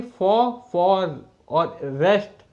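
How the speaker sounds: फॉ, फॉर और रेस्ट, slowly split apart; syllable by syllable. Shown as a demonstration. Teacher showing two vowel sounds in forest, syllable by syllable. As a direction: sound out फॉर and रेस्ट as separate slow chunks. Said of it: "इसमें vowel sound कितनी आ रही है".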